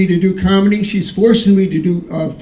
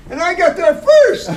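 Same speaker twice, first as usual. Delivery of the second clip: excited; 10 semitones higher than usual. Acted. Triumphant punchline, laugh.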